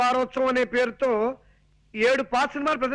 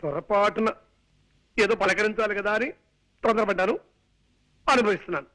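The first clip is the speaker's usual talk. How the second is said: lower, resigned grumble; rueful aside; 4 semitones lower than usual. Acted. Son-in-law regretting his polite question to aunt, rueful aside. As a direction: grumble to yourself, regretting you ever asked.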